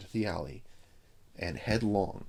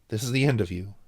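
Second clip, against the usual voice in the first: loud; 3 semitones higher, 7 dB louder, faster than usual. Acted. Chip gloats at captive.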